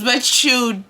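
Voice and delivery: slow, stretched "you don't" to call out a bluff; slow sassy denial to a coworker who brags about bags; drawn-out mocking denial. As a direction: drag it out, savouring the callout. Mocking a liar about shoes.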